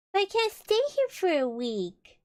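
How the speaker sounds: high, protesting bear voice; dismayed Pooh. Acted. Stuck Pooh protests in the story.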